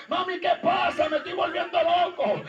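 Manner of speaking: half-shouted plea to a dead mother; a son calling out at his mother's grave, half shouting; distraught outcry. Retold or imitated. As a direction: cry out, frightened and lost.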